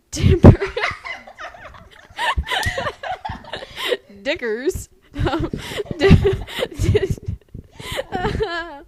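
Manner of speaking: high, helpless laughter through the words; can't get the name out for laughing; laughing fit. Real, not acted. Breaks up laughing over misread name.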